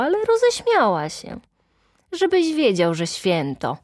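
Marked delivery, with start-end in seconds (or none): none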